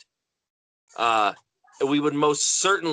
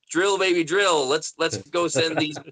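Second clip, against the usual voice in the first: raised, eager mock chant; gung-ho rally cry; 4 semitones higher than usual. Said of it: "I'm kind of of the opinion".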